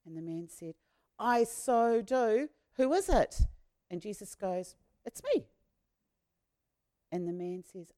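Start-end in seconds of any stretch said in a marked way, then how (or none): 1.2-3.4 eager reply. Acted. Healed man eager. 5.0-5.5 gentle reveal. Acted. Jesus reveals himself.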